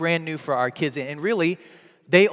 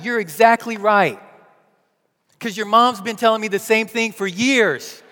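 loud, raised comic rant; hammed-up venting for a laugh; mock exasperation; 4 semitones higher, 5 dB louder than usual. Dad jokingly agreeing with his daughter, mock exasperated. Joke reply, taken back afterwards.

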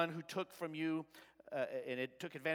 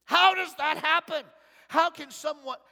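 higher, louder rhetorical how; louder question; 9 semitones higher, 11 dB louder than usual. Real, not acted. Preacher repeating his question louder to the congregation. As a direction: hit HOW and lift the whole question.

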